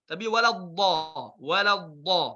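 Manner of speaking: walad da with a heavy dad; thick dad. Shown as a demonstration. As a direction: darken the dad. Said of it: "Harful dad tebal".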